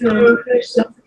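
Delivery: exasperated. Real, not acted. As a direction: insist again, fed up. Insisting on finishing.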